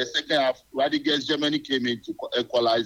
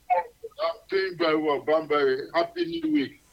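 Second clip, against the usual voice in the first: cheerful, higher-pitched greeting; very happy; 4 semitones higher, slower than usual. Real, not acted. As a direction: greet the host in a happy, lifted voice. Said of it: "You sound very happy".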